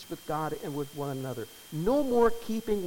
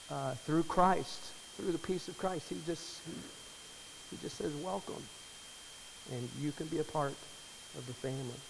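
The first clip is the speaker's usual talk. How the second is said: emotional; 6 dB quieter than usual. Real, not acted. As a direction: let the emotion nearly break the words. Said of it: "Sorry, I'm emotional for some reason".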